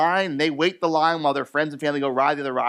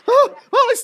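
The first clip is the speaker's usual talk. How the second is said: embarrassed laugh; 10 dB louder than usual. Retold or imitated. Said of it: "She's like".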